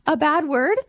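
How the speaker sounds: put-on a curious kid checking each word; innocent little girl. Mom voicing her daughter asking if "what" is bad. Six-year-old's question.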